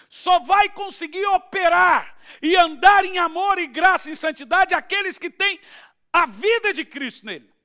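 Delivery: loud, high-pitched pulpit proclamation; full-force preaching. Real, not acted. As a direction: proclaim the verse at the top of your voice.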